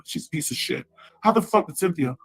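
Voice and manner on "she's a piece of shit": hissed aside, voiceless and soft; a real whisper, under her breath; whispered insult. Real, not acted. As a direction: spit it out in a whisper.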